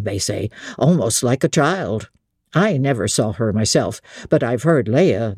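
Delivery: a lightly voiced old host confiding gossip; innkeeper. Innkeeper voice read by narrator.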